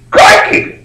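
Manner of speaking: quick Australian Crikey; Australian exclamation. Retold or imitated. British sailors startled by the American fleet, Australian Crikey. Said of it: "sorry, that would have been Australian".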